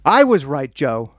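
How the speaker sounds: mild imitation of calling across a restaurant; hammed-up triumphant holler to a husband; mock scream. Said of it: "screams, literally screams across the restaurant".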